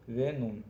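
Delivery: वेनुम said slowly on its own, each sound clear, falling at the end; Tamil word demo. Shown as a demonstration. Teacher sounding out वेनुम for Hindi learners, slow and clear. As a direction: spell out वेनुम carefully for learners. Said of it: "इसको वेनुम बोला जाता है".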